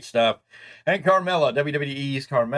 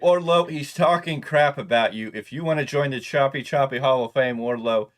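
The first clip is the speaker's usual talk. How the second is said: calling out; 3 semitones higher, 4 dB louder than usual. Acted. Calling out Wardlow on air.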